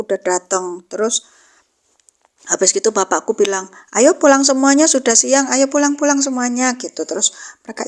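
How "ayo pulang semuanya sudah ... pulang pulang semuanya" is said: calling out. Retold or imitated. Father calling the children home.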